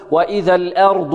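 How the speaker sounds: "الأرض" بإمالة فتحة الهمزة نحو الكسر; نطق خاطئ: "وإذا الأرض" بهمزة ممالة; إمالة خاطئة. Shown as a demonstration. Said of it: "لا نقول". (مثال خاطئ بالإمالة)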